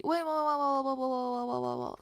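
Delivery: high, loud whoas falling away; startled. Real, not acted. Startled by something mid-sentence, loud then dropping. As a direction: react to a sudden shock, then settle.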